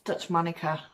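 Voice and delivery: Monica said MON-i-kuh, stressed at the front; settling on a pronunciation. Shown as a demonstration. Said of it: "can't pronounce it right".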